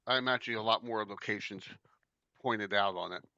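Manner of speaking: talking with candy in mouth; chewing while talking. Real, not acted. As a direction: speak around a mint you're chewing. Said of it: "Sorry, I'm chewing on these".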